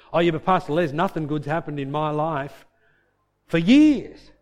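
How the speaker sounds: hammed-up whine, rising loud on for years; mock complaint. A churchgoer complains to the pastor, hammed-up whine.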